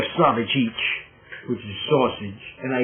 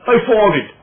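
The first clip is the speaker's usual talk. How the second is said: louder, higher I farted; mocking demo; 7 semitones higher, 6 dB louder than usual. Shown as a demonstration. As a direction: belt out "I farted" to show it sounds wrong. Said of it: "Don't sound right".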